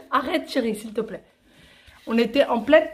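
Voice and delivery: giggling mid-sentence; words broken by laughter; being tickled. Real, not acted. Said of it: "séance chatouillage".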